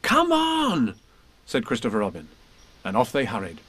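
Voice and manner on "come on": high, eager hurry-up call; urgent cut-in. Acted. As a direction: cut in brightly, rallying a friend. Christopher Robin cuts in, hurrying Eeyore.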